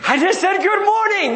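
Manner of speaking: a touch of offended wife; wife defending herself. Retold or imitated. Wife protesting to grumpy husband, mildly indignant. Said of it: "You know?".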